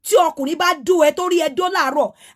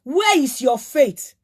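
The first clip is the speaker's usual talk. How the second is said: mocking quote; 3 semitones lower than usual. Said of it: "ó ní".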